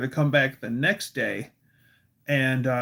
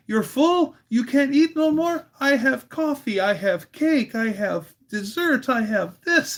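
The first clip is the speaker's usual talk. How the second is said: high-pitched incredulous grandmother; Busha; 10 semitones higher than usual. Retold or imitated. Busha offering dessert to full boys, high insistent imitation. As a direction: rattle off the offers as an insistent old Polish host. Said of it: "She goes".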